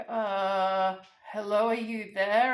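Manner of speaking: lightly voiced agent checking the line; tentative phone agent. Agent back from hold checks on silent caller, tentative. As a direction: draw out the uh, then a hesitant hello.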